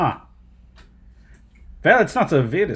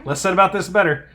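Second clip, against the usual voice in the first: high dismissive voice; 7 semitones higher, 3 dB quieter than usual. Retold or imitated. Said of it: "They're just like".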